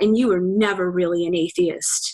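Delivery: scornful, contemptuous, disgusted, disdainful tone. Retelling her ex's only complaint after their breakup: mock-disgusted, disdainful. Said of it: "it was said with such disgust and disdain".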